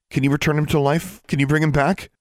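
high, eager hopeful questions; elated. A narrator's reading. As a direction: ask it in astonished hope. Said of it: "She felt elation and astonishment".

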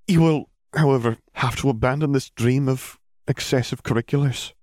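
stern, set the condition; firm McGonagall. Acted. Headmistress warning Hermione, firm. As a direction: lay down the rule.

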